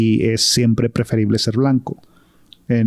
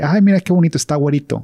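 put-on higher, doting voice over a child; cooing over a baby; 4 semitones higher, faster than usual. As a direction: gush over a cute little boy. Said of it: "ven a un niño y". (imitando a alguien que se derrite por un niño)

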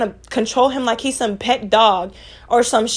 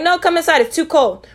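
lightly voiced fussy father, higher on come; mock the overprotective dad calling them in; fussing dad; 6 semitones higher than usual. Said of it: "And he's like".

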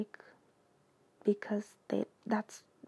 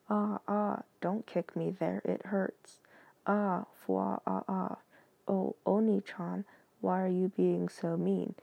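slightly lowered, deadpan read-aloud; deliberate monotone. Shown as a demonstration. Reader gets through embarrassing fan text for viewers, in monotone. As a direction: read cutesy lines with as little tune as possible. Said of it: "the most monotone voice I can utter".

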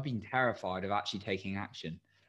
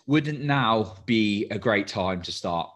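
Tony Robbins impression; 7 dB louder, slower than usual. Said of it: "would have sounded like Tony Robbins".

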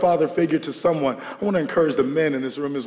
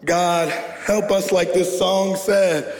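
prayer; 3 semitones higher than usual. Real, not acted. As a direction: pray it gently over the fathers. Pastor leads prayer.

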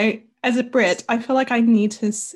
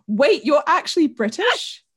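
high, loud, drawn-out disbelieving question; mock astonishment; 8 semitones higher, 5 dB louder, slower than usual. Guest retells friends learning the speaker is British, mock astonishment. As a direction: imitate friends astonished by the news.

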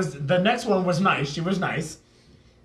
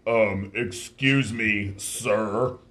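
mock polite complaint; 7 semitones lower, much slower than usual.

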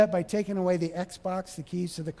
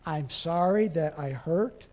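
gentle apology; 4 semitones lower than usual. Shown as a demonstration. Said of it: "And don't say you, just point".

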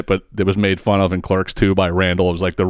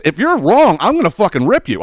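raised, pitched-up threat; imitating himself chewing someone out; mock tough-boss threat; heated threat; 8 semitones higher than usual. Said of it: "I say that all the time".

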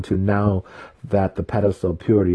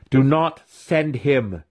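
slow, higher growl with "Do" pressed; 7 semitones higher, slower than usual. A narrator's reading. Weapon master growling at Matron Malice. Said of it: "he growled".

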